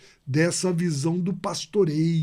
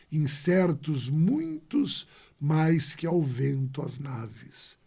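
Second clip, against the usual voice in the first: slow, measured poetry reading; poem recital; slower than usual. Acted. Teacher reciting Sá de Miranda to the class, measured. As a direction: recite it with weight, line by line.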